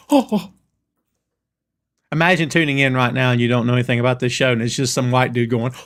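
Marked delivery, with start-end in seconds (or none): 0.1-0.5 higher-pitched mock crowd "oh"s; crowd reaction. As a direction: imitate a crowd going "oh, oh". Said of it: "that's gonna get everybody going".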